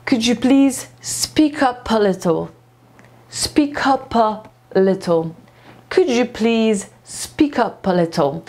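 "speak up a little" flowing on, "spi-ka-pa-little"; smooth linking. Shown as a demonstration. Teacher modelling the fluent phrase for students. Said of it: "nie chodzi o to, żeby tak szybko".

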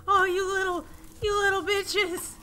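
loud frustrated yell at her cubs; mother scolding wandering babies, exasperated shout. Real, not acted.

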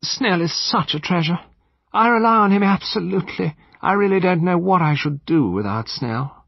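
high-pitched society lady gushing; helpless mistress's high voice; effusive vague lady. A narrator's reading. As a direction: praise earnestly in a high voice. Vague lady praises her butler.

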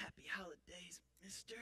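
hushed, offhand holiday greeting; no big deal. Retold or imitated. Customer greeting him in the supermarket, offhand. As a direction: toss it off softly, barely voiced. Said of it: "he said it like it was no big deal".

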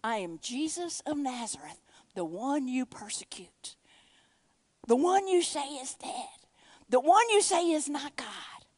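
measured, deliberate declaration building in force; firm self-announcement, growing stronger; very clear. Retold or imitated. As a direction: state it clearly, phrase by phrase. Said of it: "he was very clear".

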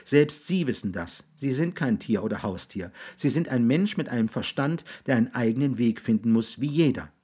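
lightly voiced earnest boy. Jix tells William he is a man, earnest boy. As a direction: reason firmly, as a young boy.

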